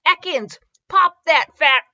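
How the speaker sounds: high, loud battle command; shouted command. Acted. Jessie commanding her snake to attack, loud and high. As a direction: call the Pokemon like a trainer in battle.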